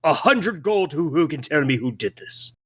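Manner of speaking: lightly voiced cat man offering a reward; a hint of an announcing warrior. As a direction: put the offer to the crowd in a light character voice. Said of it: "He pops up".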